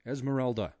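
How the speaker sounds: high, loud shrieking call; desperate loud shout of her name. A narrator's reading. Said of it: "he shrieked in her ear".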